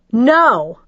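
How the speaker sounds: loud, high shocked No; horrified cry. A narrator's reading. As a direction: cry it out in horror. Horrified denial.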